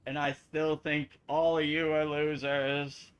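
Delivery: slow robot voice, lightly done. Pretend. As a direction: sass it out like a robot. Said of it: "I embrace the robot voice".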